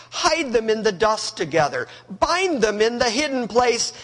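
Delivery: lightly mocking, falling Adorn, measured; mocking God. God mocking Job's pretensions, lightly sarcastic. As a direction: dare him with mild irony. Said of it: "Now God mocks him and says".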